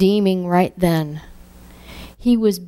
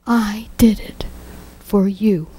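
small voice; 2 semitones higher than usual. Retold or imitated. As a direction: let it come like a whisper inside. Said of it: "I heard this small voice".

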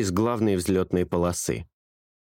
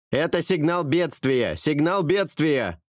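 higher, pressing mayday over radio; urgent distress call; 6 semitones higher, slower than usual. A narrator's reading. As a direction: push the alarm through static. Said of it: "Голос пилота вдруг стал громче". (пилот кричит о бедствии в рацию)

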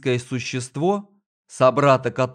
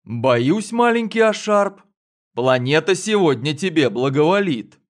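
smirking; 3 semitones higher, 4 dB louder than usual. Acted. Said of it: "усмехнулся Секер".

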